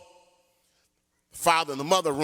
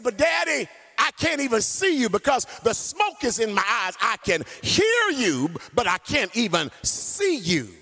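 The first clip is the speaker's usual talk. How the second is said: put-on frightened child; 5 semitones higher than usual. Scared child pleads.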